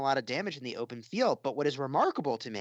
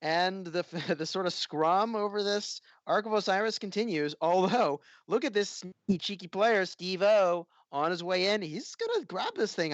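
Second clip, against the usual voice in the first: animated, higher-pitched esports call; live play-by-play; 4 semitones higher than usual. Real, not acted. Caster calling the arc on the move, live play-by-play. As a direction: call the action as it unfolds.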